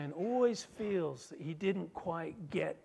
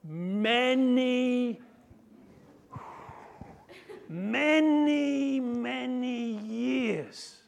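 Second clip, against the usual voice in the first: high, slow, wailing mock cry; hammed-up self-pity; whiny complaint; 7 semitones higher, 4 dB louder, much slower than usual. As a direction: wail it like a hurt child. Son's whining grievance.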